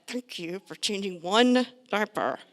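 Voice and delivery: passive-aggressive thank you to partner; sarcastic thanks. Shown as a demonstration. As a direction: drag it out with a sarcastic laugh. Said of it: "don't do it like that".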